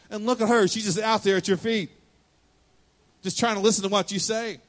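a touch of a frustrated sister; mild snapping complaint. Retold or imitated. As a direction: vent like a frazzled host. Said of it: "finally she snaps and says".

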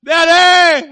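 put-on high, loud child's cry of Daddy; child calling out. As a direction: call out like a small kid in the dark.

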